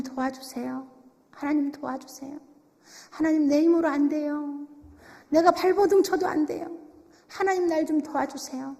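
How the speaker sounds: softly voiced, weary plea to God; pleading prayer. Struggling believer begging God for help, softly pleading. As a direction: plead quietly, as if worn down.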